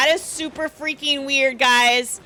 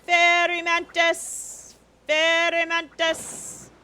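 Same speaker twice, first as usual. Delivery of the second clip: calling from far away; 3 semitones higher, slower than usual. Real, not acted. Calling out to other players.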